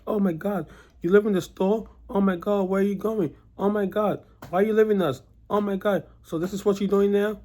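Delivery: high, gushing fake sympathy; mock gushing coworker. Coworker fussing over him leaving, gushing high mock voice. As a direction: overdo the fake concern, way up high.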